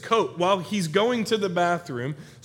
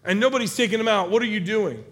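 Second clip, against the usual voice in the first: raised, higher-pitched angry scolding; retold outburst of a furious king; freaking out at his men; 5 semitones higher, 4 dB louder than usual. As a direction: lay into them with indignant disbelief. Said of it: "to freak out on his people".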